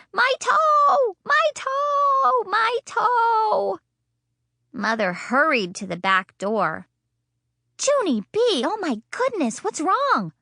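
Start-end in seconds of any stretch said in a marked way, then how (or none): 0.1-3.8 even higher, louder wail; hollering. Acted. Girl hollering again about her toe, higher and louder. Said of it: "I hollered". 7.8-10.3 a hint of a worried mother calling, higher. Mother calling from the back door, lightly voiced and worried. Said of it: "she called".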